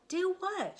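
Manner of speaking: high, puzzled cow question; puzzled Minnie. Acted. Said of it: "she asked".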